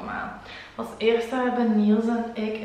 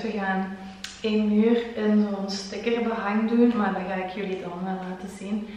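out of breath. Real, not acted. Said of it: "Ook als ik buiten adem klink".

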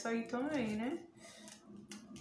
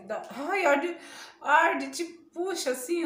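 stinging pain; 5 semitones higher, 6 dB louder, slower than usual. Real, not acted. Peeling mask stings her face.

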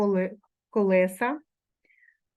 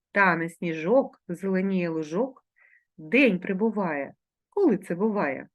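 riddle reading; 2 semitones lower than usual. Acted. Second riddle read aloud.

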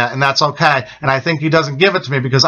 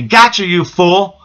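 slow, stretched-out demon taunt, lightly voiced; mocking demon; 3 semitones higher, slower than usual. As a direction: imitate a demon gloating slowly. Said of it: "he was laughing at me".

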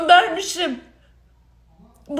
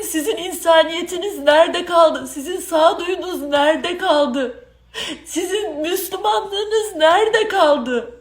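tearful. Real, not acted. Tearful accusation, crying heard.

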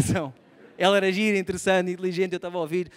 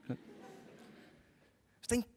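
whispered aside; 16 dB quieter, much slower than usual. Real, not acted.

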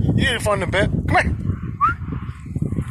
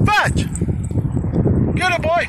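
high, eager fetch command; excited dog command; 13 semitones higher than usual. Real, not acted. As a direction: get the dog racing after it.

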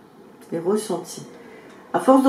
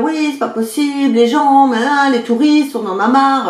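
mock annoyed rant; 3 semitones higher than usual. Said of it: "d'être agressive".

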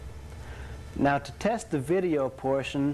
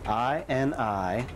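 slow, letter-by-letter spelling; slower than usual. Shown as a demonstration. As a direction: spell each letter out clearly. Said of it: "by typing".

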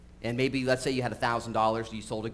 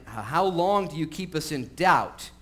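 impatient demand; 5 semitones higher, 6 dB louder, slower than usual. Acted. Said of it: "And they said to him".

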